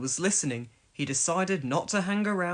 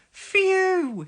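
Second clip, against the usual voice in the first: disgusted phew; 7 dB louder than usual. A narrator's reading. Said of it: "he said".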